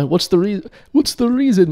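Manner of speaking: put-on high-pitched Jewish accent, feeling for it; attempted Jewish accent. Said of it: "let me get the Jewish accent".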